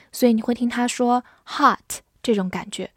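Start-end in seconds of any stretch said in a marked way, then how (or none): 1.5-2.0 "hot" with a wide-open ah vowel; American vowel. Shown as a demonstration. Teacher shows how Americans say it, "hot" with open ah. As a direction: say "hot" American-style, mouth opened wide on an "ah". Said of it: "会发成啊这个音".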